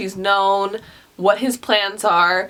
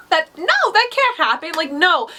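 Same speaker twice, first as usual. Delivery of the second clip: retold disbelief; 8 semitones higher than usual. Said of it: "I was like".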